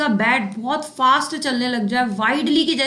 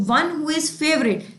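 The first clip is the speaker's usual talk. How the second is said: slow teaching read; 3 semitones higher, much slower than usual. Shown as a demonstration. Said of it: "teacher reads meaning aloud".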